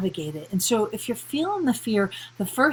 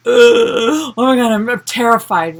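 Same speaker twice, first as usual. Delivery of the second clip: mock terror; 2 semitones higher, 9 dB louder than usual. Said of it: "are you actually terrified".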